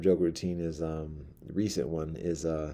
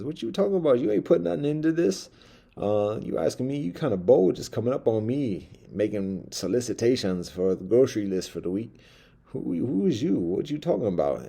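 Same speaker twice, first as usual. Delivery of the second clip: higher, louder, indignant streetwise voice; indignant grocery-list man; 5 semitones higher, 3 dB louder than usual. Retold or imitated. The list maker snaps back at the pushy mouse, higher and indignant. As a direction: act affronted, how dare you ask. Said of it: "the person making the list says".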